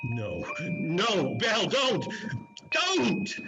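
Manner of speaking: desperate plea. Acted. Scrooge pleading with Belle not to go, rising anguish. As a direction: voice climbing high on don't.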